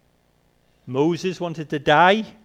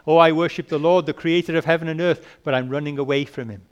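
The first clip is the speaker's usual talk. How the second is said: fast, louder mock-pious Jonah voice; mock Jonah piety; 5 dB louder, faster than usual. Preacher mimicking Jonah's hollow worship, fast and loud. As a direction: rattle it off like a smug hypocrite.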